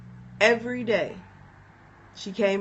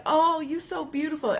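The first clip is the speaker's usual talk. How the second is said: high, adoring coo of praise; gushing friend; 7 semitones higher than usual. Retold or imitated. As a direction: imitate a friend cooing over her. Retold friend admiring her face.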